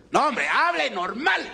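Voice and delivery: regaño. Retold or imitated. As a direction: scold him like a father would. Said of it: "Y me regañó el tipo". (regaño paternal imitado, lento y agudo)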